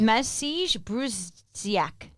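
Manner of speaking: slow sounding out. Real, not acted. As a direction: sound out Massige Bruziak syllable by syllable, very slowly. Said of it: "sounding out name".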